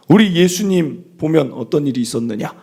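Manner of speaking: normal talking voice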